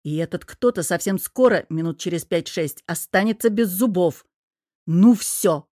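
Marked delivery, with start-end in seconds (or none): 4.9-5.7 loud, fed-up outburst; losing patience. Acted. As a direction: snap as patience runs out. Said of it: "потерял чёрт терпение". (резко, потеряв терпение)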